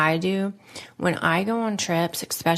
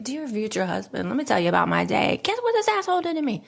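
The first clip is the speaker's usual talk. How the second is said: gossipy rush that builds higher and faster; dramatic venting; 5 semitones higher, faster than usual. Retold or imitated. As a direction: vent to an imaginary husband, fast and rising. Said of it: "drama me was like".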